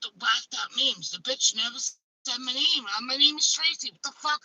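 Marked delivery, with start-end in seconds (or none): 3.0-4.4 indignant shout. Retold or imitated. Herself mocking the wrong name.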